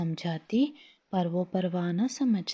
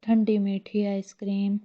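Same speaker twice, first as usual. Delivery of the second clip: a hawker's cry, raised but not a full shout; calling out loud; 3 semitones higher, 4 dB louder than usual. Acted. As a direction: call the ice cream out to the street. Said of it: "ज़ोर से चिल्लाया".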